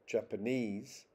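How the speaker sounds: "Japanese" with the last syllable stressed; stress on third syllable. Shown as a demonstration. Lecturer showing third-syllable stress in English, third syllable stressed. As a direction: put the main stress on NESE in "Japanese". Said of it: "the third".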